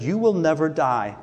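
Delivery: "never" stressed in a firm promise; emphatic, measured stress on "never". Retold or imitated. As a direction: land firmly on "never die". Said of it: "He's very emphatic".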